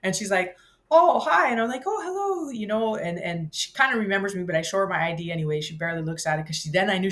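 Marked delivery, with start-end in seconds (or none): 0.9-1.5 high, loud chirpy mock hello from the clerk; bright greeting. 1.9-2.5 cheery hello. Retold or imitated. Own reply, much higher.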